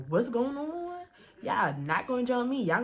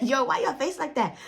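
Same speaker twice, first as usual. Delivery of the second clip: laughing question; 3 semitones higher than usual. Retold or imitated. Friend laughing at her face.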